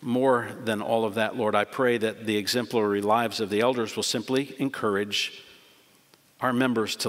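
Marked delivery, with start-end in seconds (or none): none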